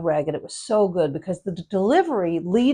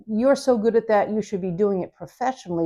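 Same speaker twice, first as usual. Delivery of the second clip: mock-teasing. Shown as a demonstration. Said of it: "in a teasing, mocking his exuberance way".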